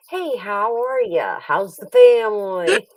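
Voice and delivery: slow, chatty small talk; mock friendly small talk; breezy dentist chit-chat, slowed down.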